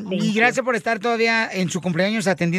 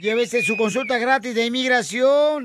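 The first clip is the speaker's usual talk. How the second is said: hyped fairground barker. Acted. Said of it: "Pásele, pásele".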